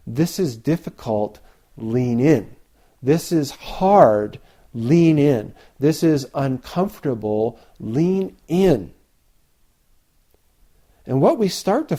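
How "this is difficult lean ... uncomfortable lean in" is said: building higher and louder, firm and resolute; encouraging, leaning in. Shown as a demonstration. Teacher modelling the lean-in attitude for students, rising firmly. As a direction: urge yourself forward into the hard thing. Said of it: "start to cultivate this attitude of".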